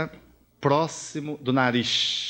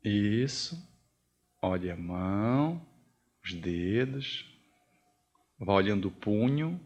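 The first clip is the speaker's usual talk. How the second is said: exercício guiado; 5 semitones lower, 3 dB quieter than usual. Acted. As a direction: lead them gently, one body part at a time. Guia um exercício de olhar a mão. (exercício guiado, devagar e baixinho)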